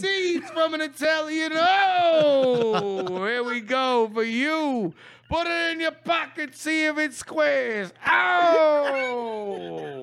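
brash, hammed-up street taunts with shouts; Italian tough guy bit. Taunting the coach in a hammed-up Italian tough-guy voice. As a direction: needle him like a mouthy wiseguy. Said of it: "did that whole improv bit".

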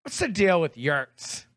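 a light hint of Dennis Miller's rant style; lightly voiced Dennis Miller rant; Dennis Miller impression. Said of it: "Dennis Miller yurt".

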